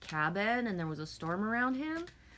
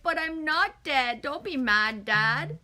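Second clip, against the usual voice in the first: put-on pleading child; 6 semitones higher, 7 dB louder, slower than usual. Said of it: "And I'm like".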